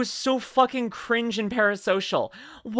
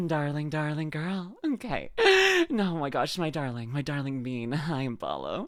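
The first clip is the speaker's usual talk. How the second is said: tender; 4 semitones lower, 5 dB quieter than usual. Real, not acted. Streamer cooing softly to a friend in chat. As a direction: coo to her fondly. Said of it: "Flustered, flustered".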